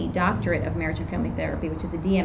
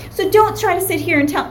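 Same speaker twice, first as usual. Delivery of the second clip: angry client; 11 semitones higher, 6 dB louder than usual. Retold or imitated. Angry client's retold tirade.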